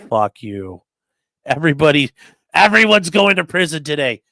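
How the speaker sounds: loud, snarling judge in a foul mood; angry judge. Retold or imitated. Lawyer imitating the cranky judge yelling at everyone, loud. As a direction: bark it at the courtroom like a furious judge.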